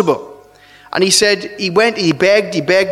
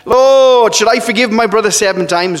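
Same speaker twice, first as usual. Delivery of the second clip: trying to be clever; 4 semitones higher than usual. Retold or imitated. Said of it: "he's trying to be clever".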